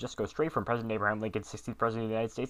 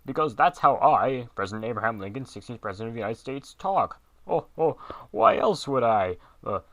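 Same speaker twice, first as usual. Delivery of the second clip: deep booming Lincoln voice; 9 dB louder than usual. Acted. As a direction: boom every word, getting flustered. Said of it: "That deep, booming voice".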